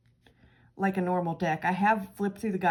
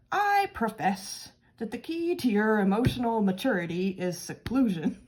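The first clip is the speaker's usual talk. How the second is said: put-on weird accent; 3 semitones higher than usual. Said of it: "hear him speaking in a weird voice with a weird accent".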